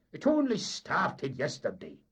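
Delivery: loud, firm insistence; emphatic. A narrator's reading. Mate assuring the captain, loud and firm. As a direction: nail it down for him. Dougie continues.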